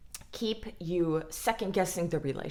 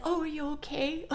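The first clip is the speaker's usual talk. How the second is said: mock sweet, much higher; fake concern; 8 semitones higher than usual. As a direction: coo it with fake sympathy. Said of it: "and I said".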